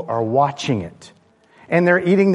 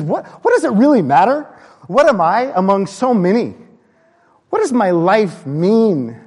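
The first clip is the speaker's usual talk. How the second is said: searching, pleading questions; 5 semitones higher, 5 dB louder than usual. Acted. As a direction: plead it out like an overwhelmed poet. Acting a poet's searching questions.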